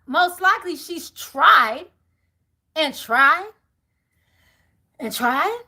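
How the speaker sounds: mounting exasperation. Acted. Repeating tried with rising exasperation.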